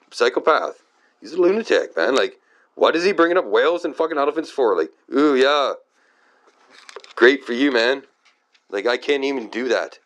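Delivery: high-pitched, incredulous ranting; exasperated rant. Real, not acted. Ranting in disbelief at God.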